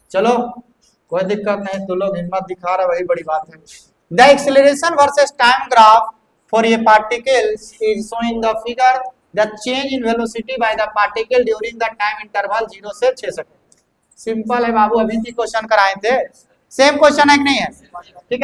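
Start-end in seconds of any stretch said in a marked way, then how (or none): 4.1-13.8 slow, deliberate reading of the problem; reading the question. Acted. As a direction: dictate the question word by word, slowly. Reads the question aloud. (प्रश्न को धीरे-धीरे पढ़कर सुनाना)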